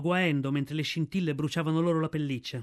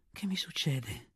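quiet sob; 3 semitones lower, 7 dB quieter, slower than usual. A narrator's reading. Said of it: "singhiozzò".

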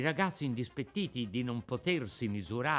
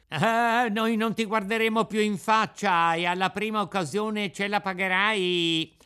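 put-on higher, louder jeering boy voice; mocking street urchins, raised pitch; taunting schoolboys; 4 semitones higher, 5 dB louder than usual. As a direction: needle him like a gang of brats. Boys threatening Pinocchio.

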